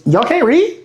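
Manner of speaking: high, drawn-out exasperated snap; retold snap. Fed-up trainer asks his adult trainees, exasperated snap. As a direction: snap in disbelief, stretching it out. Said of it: "you snap".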